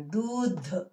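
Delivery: దూధ్ with long "oo" and air released on final "dh"; plain d first, puff of breath on the last sound of దూధ్; breathy aspirated ending. Shown as a demonstration. Teacher contrasting light and aspirated letters, breathy aspirated ending. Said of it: "గాలి వదులుతూ గట్టిగా పలకాలి".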